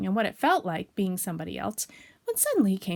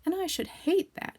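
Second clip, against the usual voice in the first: sniffing slightly; 5 semitones higher than usual. Acted. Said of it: "said Bear, sniffing slightly".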